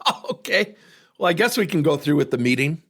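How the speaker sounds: high, mocking, half-laughing brush-off; a hint of sneering boss; mocking dismissal. The sales VP laughing at the coach, mock dismissive. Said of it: "He starts laughing at me".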